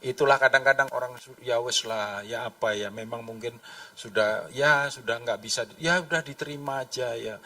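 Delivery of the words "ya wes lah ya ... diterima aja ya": low, soft, given-up voice; passive resignation. Acted. Believer who has given up, soft resigned acceptance. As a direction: trail along limply as if accepting defeat. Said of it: "kita jadi pasif".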